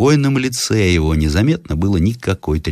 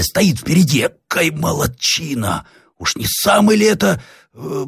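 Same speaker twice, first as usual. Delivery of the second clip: high, drawn-out gawking voice; wide-eyed high-pitched workman; excited young workman; 11 semitones higher, slower than usual. Acted. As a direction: point things out excitedly in a high voice. Story figure: gawking young workman.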